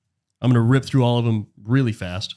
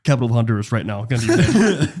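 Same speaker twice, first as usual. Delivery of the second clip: imitating pushy friend; 3 dB louder than usual. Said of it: "I'm sitting next to him and goes".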